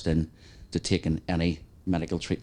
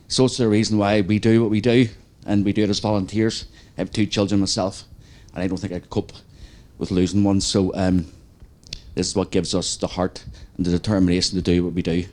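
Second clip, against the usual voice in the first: steadying shaky voice; 5 dB louder than usual. Real, not acted. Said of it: "sorry, I'm getting emotional".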